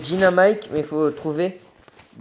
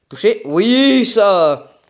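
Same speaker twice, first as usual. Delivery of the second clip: high, loud triumphant cheer; victory shout; 5 semitones higher, 7 dB louder, much slower than usual. Real, not acted. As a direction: yell with joy after a hit. Celebrates a hit. (il touche l'ennemi et hurle de joie)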